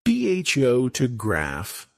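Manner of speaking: "P H O to graph" with the opening part stressed; first-syllable stress. Shown as a demonstration. Teacher giving learners an example, first-syllable stress on "P H O to graph". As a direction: lean on the start of "P H O to graph". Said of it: "stress on the first syllable".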